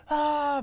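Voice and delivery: high, drawn-out scream; mock scream. Imitating girlfriend screaming as she hits the wall. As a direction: imitate a runner's agonised wail. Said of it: "be screaming and stuff".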